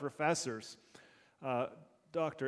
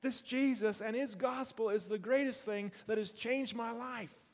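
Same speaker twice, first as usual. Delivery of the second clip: higher, eager preaching burst; excited testimony; 5 semitones higher than usual. Pretend. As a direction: tell them like it changed everything. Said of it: "you gotta tell them".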